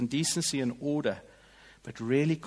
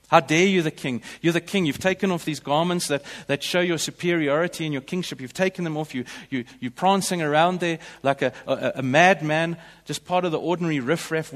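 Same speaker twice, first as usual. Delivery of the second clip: scolding wife; 3 semitones higher, 5 dB louder than usual. Retold or imitated. Wife Michal scolding King David for dancing, loud and scornful. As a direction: berate him, rising in pitch and volume.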